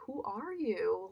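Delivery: sussurro confuso, mais lento; confused whisper. Retold or imitated. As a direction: pergunte baixinho, desconfiada.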